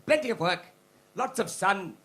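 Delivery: hammed-up toff selling a dream; posh British colonial recruiter. Comic imitating British recruiters luring Indians, posh pitch. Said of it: "it's like".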